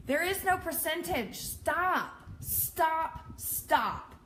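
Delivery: emphatic, spaced-out stops; exasperated insistence. Real, not acted. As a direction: hammer each STOP separately. Exasperated, holding back swearing.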